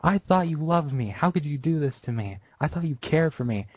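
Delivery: high, crying plea to her idol; tearful pleading. Acted. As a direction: beg through tears. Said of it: "Tears were pouring down her face".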